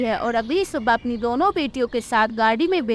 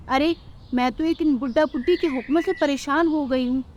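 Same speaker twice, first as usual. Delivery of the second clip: daughter-in-law complaining about in-laws; fed-up daughter-in-law. Acted. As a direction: grumble that it's them or me.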